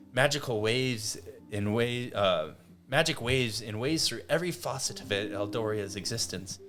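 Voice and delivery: lightly acted scripted civic speech; slightly pompous mayor. Mayor extolling his city to newcomers, mildly pompous recitation. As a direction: recite it with a touch of pomp. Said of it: "pompous smirk on his face".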